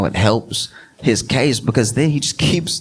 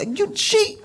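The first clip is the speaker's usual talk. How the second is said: laughing. Real, not acted. Laughing at the story.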